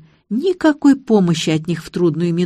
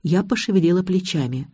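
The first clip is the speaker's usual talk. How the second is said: plain reading voice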